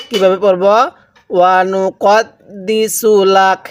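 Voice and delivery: slow drawn-out Quranic chanting; tajweed recitation. Shown as a demonstration. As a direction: recite slowly for students to echo. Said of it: "আমার সাথে এখান থেকে পড়ুন".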